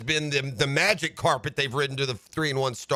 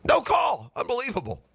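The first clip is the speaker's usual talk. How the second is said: disbelieving outrage; 7 semitones higher than usual. Real, not acted. Outrage at missed hit.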